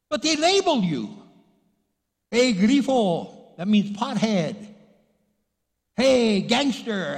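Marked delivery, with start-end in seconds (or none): 2.3-3.5 drawn-out, raised-voice name-calling. Acted. Acting out people calling him names. 5.9-7.2 slow, loud, high-pitched hail; calling out. Acted. Acting out people calling out labels.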